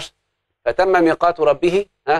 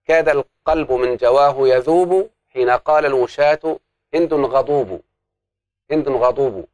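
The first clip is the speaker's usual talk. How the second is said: slow, measured recital of a verse; poem recitation; slower than usual. Retold or imitated. Teacher reciting a poet's verse to students, slow and measured. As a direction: read the couplet out slowly, savouring it. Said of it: "كما قال الشاعر".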